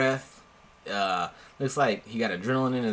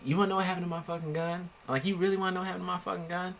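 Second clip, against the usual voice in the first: incredulous retort; 5 semitones higher, much faster than usual. Retold or imitated. Retorting to the friend.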